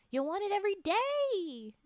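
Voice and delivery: suggestive, knowing "You'll want it every day."; insinuating. Acted. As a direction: lean on it with a creepy hint. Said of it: "Don't say it like that".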